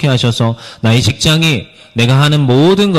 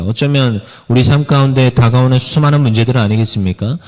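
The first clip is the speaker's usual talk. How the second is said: usual speaking voice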